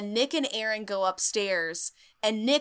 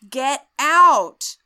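mock ghost shout; 5 semitones higher, 9 dB louder than usual. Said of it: "ghost quote".

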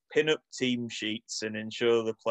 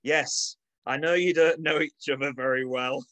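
mock team talk; 5 semitones higher than usual. Reading a halftime team talk.

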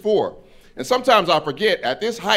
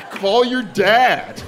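put-on higher, drawn-out white-girl delivery; confident white girl; 8 semitones higher, much slower than usual. Homie's girlfriend interrupting him, confident white-girl voice. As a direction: stretch it out with total assurance. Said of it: "That is a white woman phrase".

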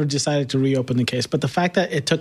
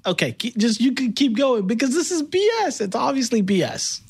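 laughing; 6 semitones higher than usual. Real, not acted. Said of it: "I can't believe you're laughing at this".

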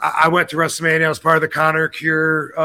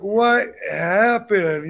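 usual speaking voice

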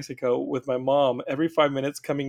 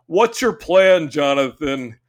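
stern stepdad; 5 dB louder, slower than usual. Retold or imitated. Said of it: "was like".

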